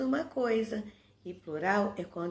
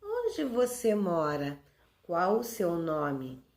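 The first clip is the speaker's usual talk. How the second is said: slow, deliberate questions on "onde você mora" and "Qual o seu nome"; question intonation; 2 semitones lower, slower than usual. Shown as a demonstration. Teacher giving examples of the question mark, question intonation on "onde você mora". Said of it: "estamos perguntando alguma coisa".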